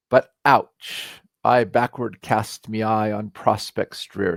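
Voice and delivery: put-on slow, measured recital of old Scots verse; dwelling on each line of verse; poem recital. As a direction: read it like a cherished poem, unhurried.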